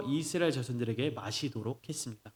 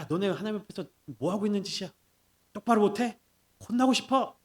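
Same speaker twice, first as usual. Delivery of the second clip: acted harsh scolding; 5 semitones higher than usual. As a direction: scold them sharply as if in anger. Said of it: "내가 막 호되게 혼나는, 혼내는 모습".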